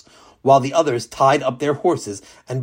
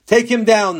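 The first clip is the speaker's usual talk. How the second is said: higher, louder urgent command; sudden order; 7 semitones higher, 3 dB louder than usual. Acted. King commanding the guards, sudden and loud. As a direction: cut in with an order. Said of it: "the king ordered suddenly".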